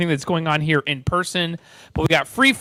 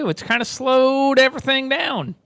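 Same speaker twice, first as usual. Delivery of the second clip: lightly hammed-up Texas drawl, higher and slow; put-on hillbilly-style Texas accent; fake Texas accent; 5 semitones higher than usual. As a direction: stretch it out in a mock Texan accent. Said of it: "Use my fake Texas accent".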